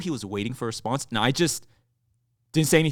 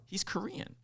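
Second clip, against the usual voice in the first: a lightly voiced barista, high and soft; imitating the barista; 10 semitones higher, 11 dB quieter than usual. Barista tells customer his favorite player is Korean, in a high soft voice. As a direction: mimic the cashier's soft, high-pitched remark. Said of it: "And he goes".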